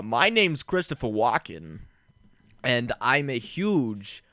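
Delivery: halting delivery with odd pauses; slow right down and break the line up oddly; light celebrity impression, slow and halting; Christopher Walken. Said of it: "One of you guys do Christopher Walken".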